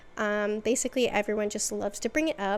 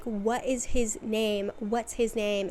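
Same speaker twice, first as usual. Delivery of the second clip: freaking out; slower than usual. Retold or imitated. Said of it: "starts freaking out about Dimitri".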